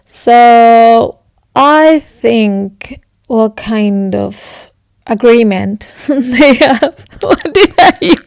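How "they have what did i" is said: laughing. Real, not acted. Laughing at her made-up word.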